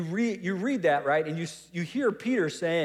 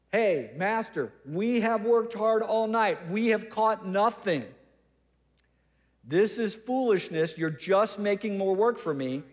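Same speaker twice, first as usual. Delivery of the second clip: pointedly for the crowd; 4 semitones higher than usual. Acted. Peter verbalizing to Jesus while looking at the crowd, pointed. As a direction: address the master but make sure everyone hears. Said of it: "he's looking at the crowd".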